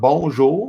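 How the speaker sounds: Bonjour said bohn-ZHOO with a rising end; French pronunciation. Shown as a demonstration. Streamer teaching viewers four words, Bonjour said in French. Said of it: "I'll teach you four words".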